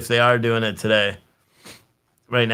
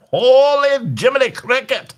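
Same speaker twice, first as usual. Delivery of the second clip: high, louder shocked outburst; stunned exclamation; 12 semitones higher, 4 dB louder than usual. Real, not acted. Streamer reacting to riot footage, high and stunned. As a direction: gasp it out in disbelief.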